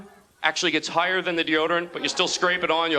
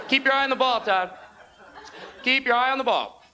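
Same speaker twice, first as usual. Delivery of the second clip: higher-pitched mock yell from the stands; dad yelling; 5 semitones higher than usual. Dad to his son at Little League, mock yelling. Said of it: "when he was done yelling".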